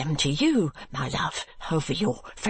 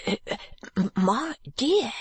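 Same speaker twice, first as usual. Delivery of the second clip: stammering timid husband; 2 semitones higher than usual. Acted. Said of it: "when his tongue is loosened".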